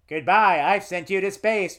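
mock robot villain farewell with a cackle. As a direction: ham up the evil robot gloat. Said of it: "He just goes".

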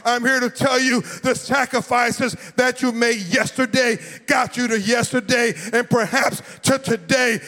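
rising, sung preacher cadence; full-force preaching. Acted. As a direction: preach it, let the words ring out. Preacher builds to climax.

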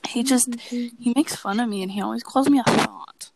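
airy breath-heavy voice; breathy. Real, not acted. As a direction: breathe through the words. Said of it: "Why are you breathing?".

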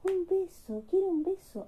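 high, loud calling for a kiss; shouting. Acted. Little elephant shouts to the jungle for a kiss, high shout. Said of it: "Chiquitín grita".

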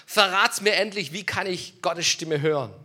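sudden loud call on the first word, easing off; mock shout. Man shouting from the back during the service, mock shout. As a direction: call out to the pastor from far back. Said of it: "der schrie plötzlich".

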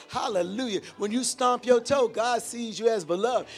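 ordinary talk

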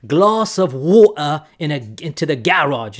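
exaggerated British, "garage" stressed on the first syllable; fake British accent. Shown as a demonstration. Showing how Brits pronounce it differently, fake British accent. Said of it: "my fake British accent here".

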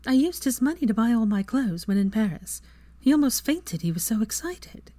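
put-on bright young witch, amused; young woman voice. Voicing Hermione.

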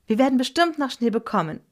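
encouraging. A narrator's reading. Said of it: "machte sie mir Mut".

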